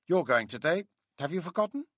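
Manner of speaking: high, mocking woman's voice; mockingly disapproving. A narrator's reading. Colleague reminds the doctor about today's training, mockingly disapproving. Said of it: "she added in a mockingly disapproving voice".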